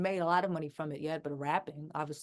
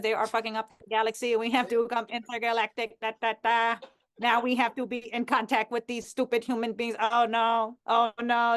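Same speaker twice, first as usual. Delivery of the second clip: mock alien voice; 3 semitones higher than usual.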